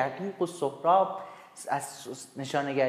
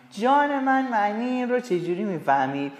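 mock pleading; 4 semitones higher than usual. Character pleading.

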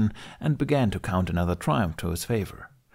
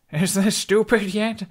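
much higher, slow gleeful taunt; playful teasing; 12 semitones higher, 4 dB louder, slower than usual. Acted. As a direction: tease the dragon while clinging on. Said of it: "Hiccup laughed".

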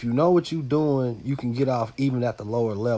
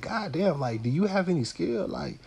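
exasperated; 2 semitones higher than usual. Retold or imitated. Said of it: "And I just like".

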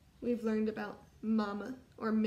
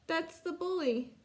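higher, lightly voiced scared child; frightened cub; 5 semitones higher than usual. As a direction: point out the bully, a touch afraid. Frightened cub points out bully.

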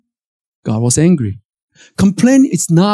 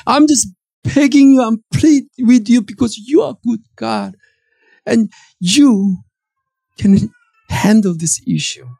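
humble begging; 4 semitones higher than usual. Acted. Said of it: "You're just on your knees".

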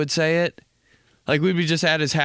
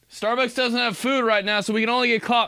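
friendly chat; 10 semitones higher than usual. Pretend. Chatting with imagined car intruder.

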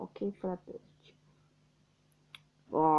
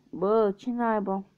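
slow, disbelieving what the hell; exasperated surprise; 4 semitones higher, 4 dB louder, slower than usual. Real, not acted. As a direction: drag it out in disbelief. Surprised by wrong result. (uimire exasperată)

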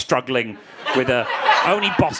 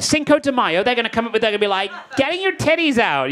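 imitating his own worry; 6 semitones higher than usual. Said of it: "I was like".

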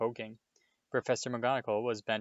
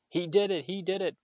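much higher, loud furious spit; spat accusation; 9 semitones higher, 5 dB louder than usual. A narrator's reading. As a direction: hurl the accusation at the boy. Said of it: "Filch spat".

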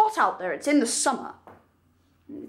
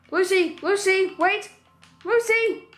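calling out; 4 semitones higher than usual. Acted. Calling after the runaway dog.

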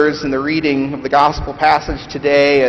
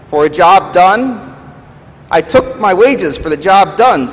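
loud, higher, aggrieved working man; bitter ghost; 5 semitones higher, 5 dB louder than usual. Acted. Big Ghost accusing the bright Spirit, loud and indignant. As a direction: bluster like a wronged, bitter ghost.

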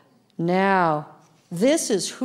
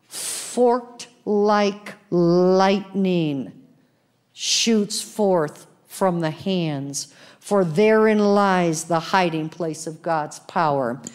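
very slow, drawn-out phrasing; slow solemn scripture; slow emphatic reading; slower than usual. Acted. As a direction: stretch each word for weight.

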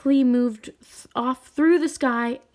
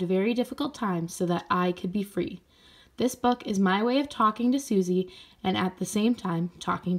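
gentle storybook reading voice of a letter; reading a letter aloud. Acted. Teacher reading the author's note to children, gentle read-aloud.

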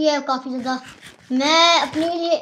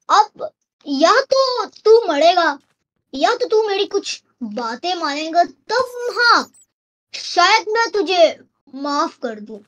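slow, swinging villain threat; mock menacing ultimatum; 3 semitones higher, slower than usual. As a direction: toy with the captive, drawing words out. Captor gives trapped player ultimatum. (बनावटी धमकी, खींच-खींच कर)

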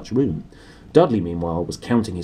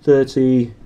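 slow Dudley; 4 semitones higher, 5 dB louder than usual. Acted. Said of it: "he said slowly".

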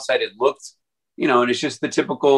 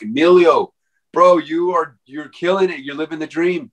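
hyped-up praise; 5 semitones higher than usual. Retold or imitated. Outsiders cheering him on about his success, hyped-up bro voice. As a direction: pump him up like an admiring buddy. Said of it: "People on the outside were like".

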